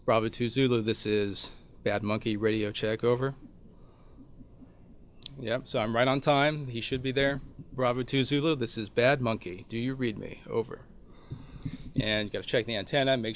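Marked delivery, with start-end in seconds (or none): 0.0-3.3 calm radio call; steady radio check call. Shown as a demonstration. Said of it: "So I key the handset". 7.7-10.8 radio call voice. Shown as a demonstration. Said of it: "So I key the handset".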